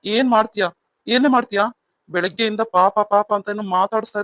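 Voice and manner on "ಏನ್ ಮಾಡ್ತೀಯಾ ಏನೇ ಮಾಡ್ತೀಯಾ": angry challenge. Acted. Husband quarrels with wife.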